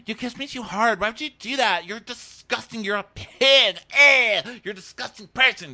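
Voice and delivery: very high screechy parody; hammed-up complaint building to a loud squeal; mock disgusted girlfriend. Acted girlfriend complaining, then insulting.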